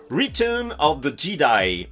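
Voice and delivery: slow French-accented English; careful, drawn-out attempt at English; effortful English accent. Real, not acted. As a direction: take pains over each English word. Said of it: "Excusez-moi pour l'accent, même si j'essaye".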